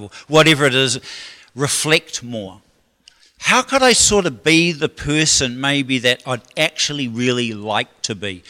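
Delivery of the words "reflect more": slow emphasis. Shown as a demonstration. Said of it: "repeated key line".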